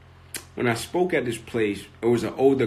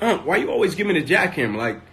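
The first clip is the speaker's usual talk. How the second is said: put-on higher and louder, a frustrated boy pleading; retold mad kid; 7 semitones higher, 4 dB louder than usual. Boy complains to his uncle about always getting the jackhammer, higher and louder. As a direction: complain like a fed-up kid, voice climbing. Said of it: "And I'm mad".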